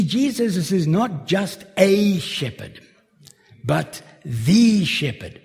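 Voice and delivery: "the shepherd" with the stressed. Shown as a demonstration. Preacher contrasting a shepherd with the shepherd. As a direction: hit "the" before shepherd. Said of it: "more emphatic".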